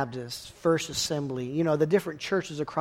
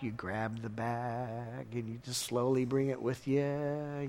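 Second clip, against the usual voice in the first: sneaky hush; 6 semitones lower, 11 dB quieter, slower than usual. Retold or imitated. Sneakily taking back guilt.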